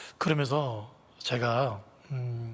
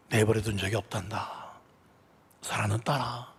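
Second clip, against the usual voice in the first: gentle voice of God; 3 semitones lower than usual. Acted. God tenderly reassuring the pastor's wife. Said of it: "어디선가 이런 소리가 들리더래요".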